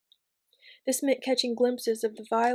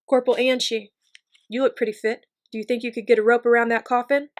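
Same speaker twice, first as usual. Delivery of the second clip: commanding call; 8 dB louder, faster than usual. Acted. Officer addressing corporal in the field.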